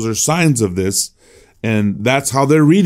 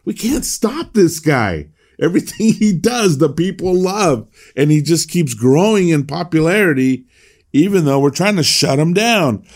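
higher, mock-frustrated complaint with a laugh; exasperated Pharisees; 5 semitones higher than usual. Teacher voicing the Pharisees' frustration, lightly mocking. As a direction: play the Pharisees as comically fed up. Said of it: "they're just like".

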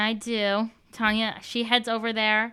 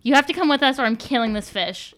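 threatening; 3 semitones higher, 5 dB louder than usual. Acted. Threatening the captain.

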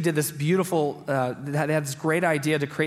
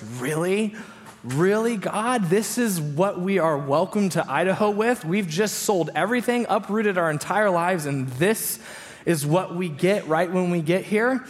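indignant, higher-pitched mock complaint; retold fury; 3 semitones higher than usual. New arrival complaining to God about his welcome, mock furious. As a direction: protest in disbelief, hammed-up. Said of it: "I am furious".

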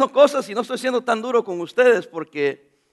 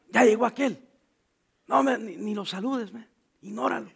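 quiet scornful gossip; 9 dB quieter than usual. Acted. Mock gossip about a brother.

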